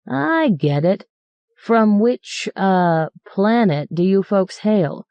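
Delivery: slow, mocking question; a driver sneering at his fussy passengers; mocking sarcasm. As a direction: needle them about which planet they're from.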